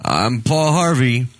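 slow, lightly voiced radio sign-off; a hint of the old radio host; Paul Harvey impression. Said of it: "he would end it with".

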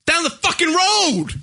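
angry outburst. Real, not acted. Angry retelling.

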